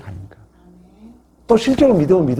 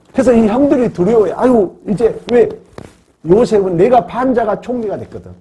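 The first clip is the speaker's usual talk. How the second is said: high, loud preaching storytelling; worked-up retelling; 9 semitones higher, 4 dB louder than usual. Retold or imitated. Preacher telling how the brothers fear Joseph, worked-up. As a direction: raise the voice on the brothers' dread.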